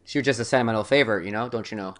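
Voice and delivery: put-on quick, light Minnesota accent. Host to co-hosts, showing off his Minnesota accent, lightly. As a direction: slip into a playful Minnesota lilt. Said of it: "do the accent".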